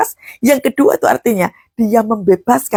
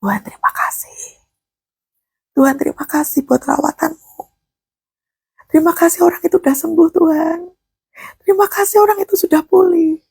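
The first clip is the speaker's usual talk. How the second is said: starts whispered, then higher and rising with joy; grateful prayer; 7 semitones higher than usual. Retold or imitated. Pastor voices his grateful prayer for healed people, rising joy. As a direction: build from a whisper to glad thanks. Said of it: "Hanya sekedar bersyukur di hadapan Tuhan".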